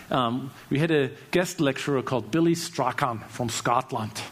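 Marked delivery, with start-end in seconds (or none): 2.3-4.2 rough, amateur Scottish accent; attempted Scottish accent. Shown as a demonstration. Speaker names a guest lecturer from Scotland, attempted Scottish accent. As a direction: have a clumsy go at sounding Scottish. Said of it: "That's my attempt at a Scottish accent".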